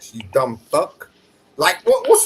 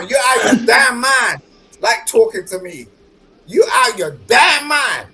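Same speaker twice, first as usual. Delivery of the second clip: yelling in a heated fight; angry shout; 3 semitones higher than usual. Real, not acted. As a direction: shout him down.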